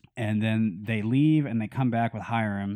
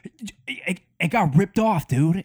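higher, louder, playing dumb with the guard; fake innocent excuse; 9 semitones higher, 9 dB louder than usual. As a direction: act totally innocent, a bit too hard. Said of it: "like the best acting job of all time".

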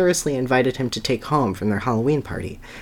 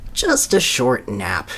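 drowsy and slow; slow sleepy thought; slower than usual. Acted. Tired Sonny deciding to nap, slow and drowsy. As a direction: drag it out like nodding off. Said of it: "he thought".

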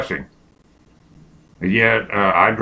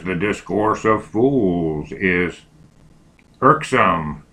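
dictating; slower than usual. Shown as a demonstration.

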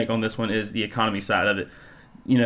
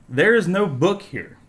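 innocent translation; 7 semitones higher, slower than usual. Shown as a demonstration. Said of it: "And it translates to".

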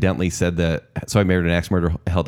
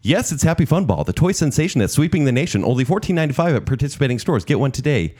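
ad announcer; 5 semitones higher than usual. Retold or imitated. Host reciting a fake toy ad to co-hosts, as a cheesy announcer.

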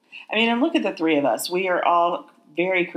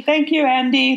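high, loud mock Liverpudlian; awful Liverpool accent; 9 semitones higher, 5 dB louder than usual. Echoing a co-host's thanks to Andy, awful Liverpool accent. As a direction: have a go at Scouse, badly. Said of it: "I thought yours was awful".

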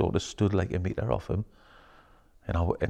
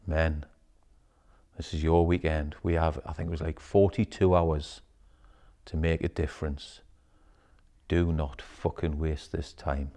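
solemn leader; 3 semitones lower, 6 dB quieter than usual. Retold or imitated. Retold leader addressing men.

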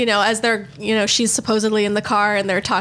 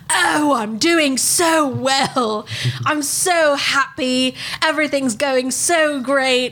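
slow, drawn-out parody of a man voicing a singer; higher, stretched-out mock celebrity voice; a famous singer; 4 semitones higher, much slower than usual. Radio impressionist poses as singer calling in, hammed-up drawl. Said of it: "you hear this man's voice".

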